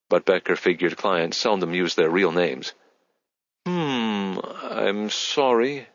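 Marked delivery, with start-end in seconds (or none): 3.7-5.9 slow, slightly higher polite apology; apologetic. A narrator's reading. Receptionist to caller after checking the books, apologetic. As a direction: let her down gently, drawing it out. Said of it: "she apologized".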